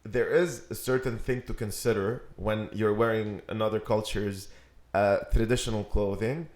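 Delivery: light southern US accent. Shown as a demonstration. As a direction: talk it through in a Southern accent. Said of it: "My, my southern accent".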